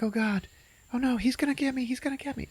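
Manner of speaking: high, panicky squeal; a cartoon bun fleeing in fright; hammed-up frightened bun; mock panic. Bun panicking while chased.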